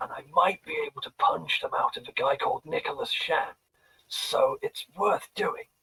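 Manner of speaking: close, hushed whisper. Speaking only to her so others won't hear, whispering in her ear. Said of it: "I'm gonna whisper to her".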